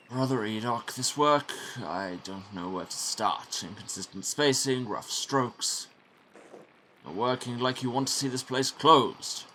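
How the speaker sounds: lightly voiced stern prior scolding; a hint of a disapproving superior. Prior scolding Brother Enoch over sloppy work, mildly stern.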